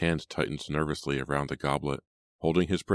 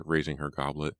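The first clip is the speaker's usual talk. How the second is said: ordinary delivery, nothing marked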